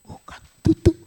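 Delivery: high, hurried denial; Peter denying. Retold or imitated. Peter denying to the servant girl, high and hasty. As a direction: brush her off in Peter's voice. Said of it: "Apa jawab Petrus?".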